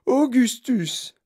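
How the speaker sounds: high, loud, stretched-out call; drawn-out high holler; mother's yell. A narrator's reading. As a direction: yell the name slowly at a child. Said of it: "hurla madame Gloop".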